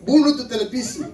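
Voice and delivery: high imitated wife's yell; shouting. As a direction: yell the order across the house. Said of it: "istri saya teriak lagi".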